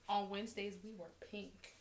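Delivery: a soft, hushed movie line, lightly voiced; quoting Mean Girls. Vlogger quietly quoting a movie line about pink, hushed. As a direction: breathe the famous pink line almost to herself. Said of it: "That felt so weird saying that".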